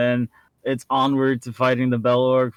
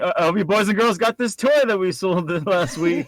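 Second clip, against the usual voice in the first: toy ad voice; 7 semitones higher than usual. Pretend. Mock toy ad pitch.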